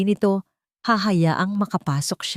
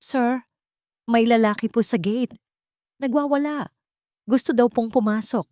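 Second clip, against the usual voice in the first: raised, anxious report; worried guard; 6 semitones higher than usual. Acted. Security chief warning his boss, worried and raised. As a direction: hurry to tell the boss about trouble. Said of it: "mukhang nababahala".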